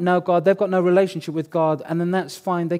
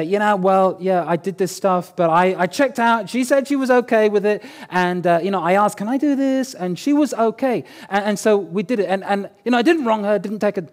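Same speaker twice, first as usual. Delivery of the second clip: mock self-justifying protest, a touch raised; defensive excuses; 3 semitones higher, 3 dB louder than usual. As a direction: imitate someone lightly flustered, explaining themselves away. Acts out someone making excuses.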